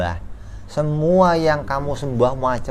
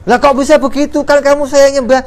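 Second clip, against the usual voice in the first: much higher, louder outraged protest; indignant disbelief; 13 semitones higher, 7 dB louder, faster than usual. Acted. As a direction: cry out in shocked disbelief. Worshippers protest to idol.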